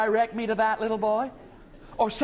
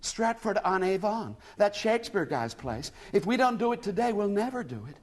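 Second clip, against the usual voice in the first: higher, lost American woman near tears; tearful; 7 semitones higher than usual. A narrator's reading. American lady telling William she is lost, tearful. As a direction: plead on the edge of a sob. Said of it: "she ended in a sob".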